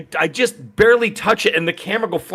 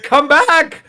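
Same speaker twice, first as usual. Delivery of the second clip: high, louder mock call after someone; imitating a yell; 11 semitones higher, 3 dB louder than usual. Streamer calling after a woman floating into space, mock yell. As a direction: call out as if she's drifting away. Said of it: "like, yelling at it".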